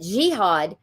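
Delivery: ordinary talk, nothing marked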